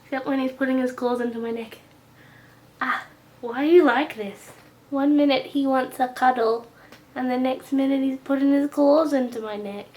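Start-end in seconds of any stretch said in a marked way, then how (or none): 2.8-9.9 high, loud exasperated scolding. Real, not acted. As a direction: fuss at the clawing cat. Scolding cat clawing her.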